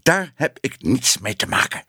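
angry call. A narrator's reading. Ellemeet rejecting the editor's excuse, mildly angry. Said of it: "riep Ellemeet".

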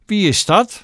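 high, taunting question; mocking laugh. A narrator's reading. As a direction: jeer at her with false amusement. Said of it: "lachte Rosamond". (spottend, met hoge stem)

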